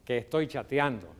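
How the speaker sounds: defiant retort, loud first words then easing. Shown as a demonstration. Child busy chatting refuses parent's request, mildly defiant. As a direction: push back at a request, acted lightly. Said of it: "un tono, digamos, desafiante, vas a decir".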